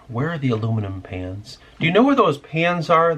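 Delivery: mimicking customers. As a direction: parrot the annoying customer's question. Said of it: "people asking the same fucking question".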